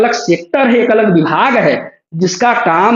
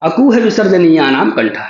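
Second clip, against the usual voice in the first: recited sutra. Shown as a demonstration. Teacher reciting the sutra to students, measured and clear. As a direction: chant the Sanskrit sutra evenly. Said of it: "सबसे पहला है".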